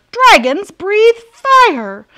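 shrill, very loud, high-pitched shouting outburst. A father reacts to his little dragon son, shouting. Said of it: "shouted his father".

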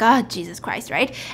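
irritated, fed-up, annoyed outburst. Retelling a surgery story, speaker quotes the doctor irritated by his ringing phone: imitating annoyed doctor. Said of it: "he gets annoyed. He's like".

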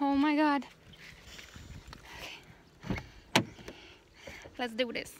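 panting, breathless, soft and winded. Speaker back from the beach, addressing viewers, out of breath. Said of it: "I'm so out of breath".

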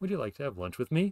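rising, questioning pitch on final me. Showing how a yes-or-no question sounds, rising pitch on final 'me'. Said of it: "you have this this ascending bit at the end".

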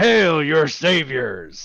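booming voice. Player's character, magically amplified, calls out from hiding: booming voice. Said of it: "My voice booms out".

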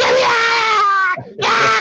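put-on high, loud screaming child voice. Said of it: "And I'm screaming".

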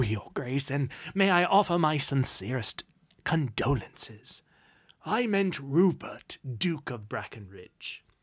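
ordinary talk

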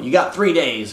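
ordinary delivery

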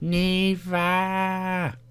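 level, flat robotic voice.

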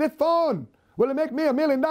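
imitated Vietnamese accent. Quoting his first mentor, the speaker imitates the mentor's Vietnamese accent. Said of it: "That was his accent".

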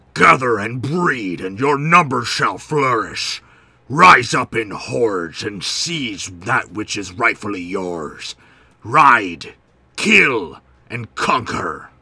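very loud, slow, deliberate, booming orc-like voice. Reading a god's commands to his worshippers aloud, orky voice. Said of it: "I should probably read this in an orky voice".

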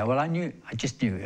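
usual speaking voice

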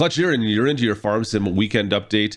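ordinary talk

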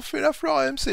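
high, squeaky, mocking voice.

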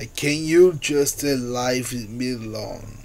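ordinary delivery

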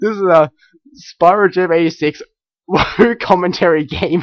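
giggling through words. Reading the words printed on a t-shirt: laughing while talking. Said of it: "I don't know why I'm laughing so much".

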